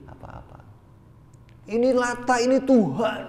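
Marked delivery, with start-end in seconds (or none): 1.7-3.2 high, loud mock declaration; imitated idol worshipper. Mimicking a believer in Lata as God, high loud mock conviction. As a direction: proclaim it in a raised put-on voice.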